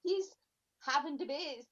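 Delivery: high-pitched gushing fan; over-the-top starstruck praise; gushing mock admiration. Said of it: "Everybody will listen to you and be like".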